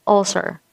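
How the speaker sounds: "ulcer" with a short middle vowel in the first syllable; correct pronunciation. Shown as a demonstration. Teacher says it's different, correct short-vowelled "ulcer". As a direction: model "ulcer" briefly, relaxed first vowel. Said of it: "it's different".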